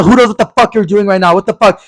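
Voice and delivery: high, indignant boyfriend impression; hammed-up high outrage; mock angry rant. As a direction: imitate an irate accusation in a quarrel. Acted quarrel with irate boyfriend.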